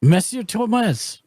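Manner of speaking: Monsieur Thomas in a light French accent, Toh-mas; French-accented name. Shown as a demonstration. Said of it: "but you have an accent".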